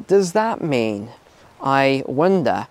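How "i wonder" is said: ordinary talk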